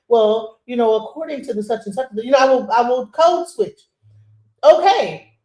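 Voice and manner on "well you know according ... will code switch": corporate code-switch. Retold or imitated. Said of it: "corporate environment and I will be".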